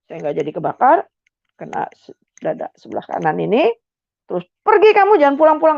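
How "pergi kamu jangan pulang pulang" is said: high, loud urgent command; urgent shout. Retold or imitated. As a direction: send her away in panic. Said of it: "ibu menyuruh pergi". (ibu berteriak menyuruh pergi)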